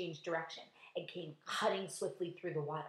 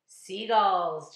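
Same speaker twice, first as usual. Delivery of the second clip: assured, unhurried reply; loud but composed; calm answer; 10 dB louder than usual. A narrator's reading. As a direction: state it plainly, untroubled. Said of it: "James answered calmly".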